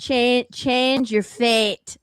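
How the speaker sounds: put-on halting Scottish accent, dragged out; slow Scottish accent try. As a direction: stumble slowly through a Scottish accent. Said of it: "It's a Scottish accent".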